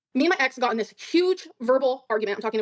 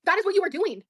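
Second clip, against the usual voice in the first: indignant retort; 6 semitones higher than usual. Real, not acted. Arguing back at accuser.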